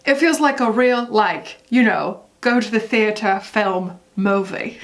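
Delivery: a hint of a British accent, drifting Australian; lightly voiced English pop star accent, half-hearted; a pop star's British accent. Reading the singer's quote to viewers in a mild put-on British accent. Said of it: "I can't do his accent. ... I go Australian, but I'll try".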